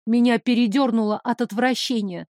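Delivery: plain reading voice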